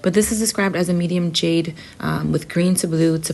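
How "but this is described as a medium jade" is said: raspy, hoarse voice from a cold. Real, not acted. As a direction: talk through a raspy throat. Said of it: "excuse my raspy voice, I'm getting over a cold".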